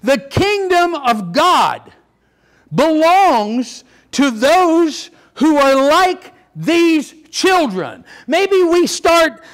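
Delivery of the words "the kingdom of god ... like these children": emphatic rereading. Shown as a demonstration. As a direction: read it out word by word with emphatic pauses. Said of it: "I better read it again".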